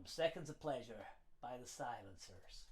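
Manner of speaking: put-on American accent. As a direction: slip into a mild American accent. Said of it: "Why am I talking in American accent?".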